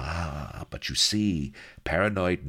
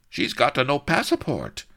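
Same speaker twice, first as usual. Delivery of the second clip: gruff soldier; 11 semitones higher, 6 dB louder than usual. Acted. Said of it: "announced Corporal Gomez".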